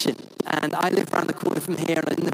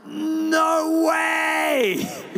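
retold excited shout; 11 semitones higher than usual. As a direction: yell it like a thrilled fan. Retold reaction to Archbishop's call.

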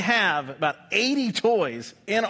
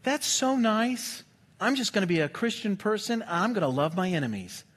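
softer, syrupy self-satisfied voice; mock pious sweetness; 4 dB quieter than usual. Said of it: "I'm like".

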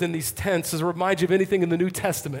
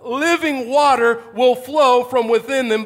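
raised, slow proclamation; loud voice; 5 semitones higher, 6 dB louder, slower than usual. Acted. Jesus inviting the thirsty at the festival, loud voice. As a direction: proclaim it slowly to a whole crowd. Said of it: "he says in a loud voice".

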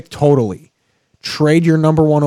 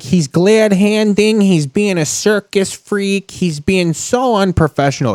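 high, slow, drawn-out mock outrage; mock outraged Sylvie; 7 semitones higher than usual. Co-host retells the host's rant after the interview, mock outraged. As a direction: imitate an indignant sports host, pitched up and stretched out. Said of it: "Sylvie was just like".

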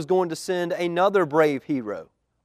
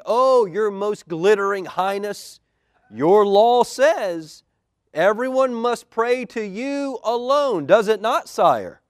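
oily flattery; 6 semitones higher, 6 dB louder, slower than usual. Acted. Scheming men flatter the king.

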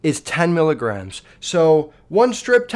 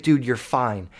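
lower, understated reassurance; calm brother; 4 semitones lower, 3 dB quieter than usual. Retold or imitated. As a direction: imitate an unfazed brother settling someone down. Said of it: "the calmest person I've ever fucking met".

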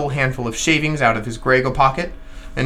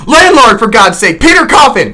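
much higher, much louder panicked cry; a panicked man shouting for rescue in the dark; shouting for help; 9 semitones higher, 10 dB louder than usual. Acted. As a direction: yell for the landlord in terror. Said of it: "shouted I".

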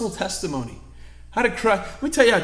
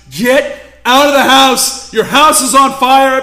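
loud, high, frantic yell of warning; panicked screaming; 7 semitones higher, 13 dB louder than usual. Retold or imitated. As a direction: scream it like her neighbour's life depends on it. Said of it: "screaming at the top of her lungs".

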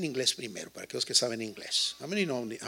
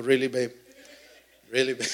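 incredulous really; 5 dB louder than usual. Retold or imitated. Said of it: "Le digo".

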